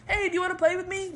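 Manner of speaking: a hint of a pleading little kid; eager kid. Acting a kid asking parent.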